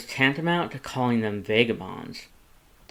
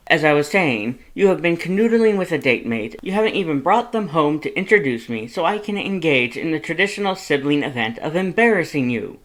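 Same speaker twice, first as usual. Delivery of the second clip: high, loud, exasperated lecture; worried brother laying down the law; Papyrus scolding; 6 semitones higher, 7 dB louder than usual. A narrator's reading. Papyrus lectures Sans about drinking, high and loud.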